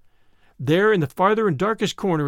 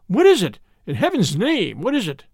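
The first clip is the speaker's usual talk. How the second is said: alarmed demand; 3 semitones higher than usual. Acted. Shocked question outside the shut door.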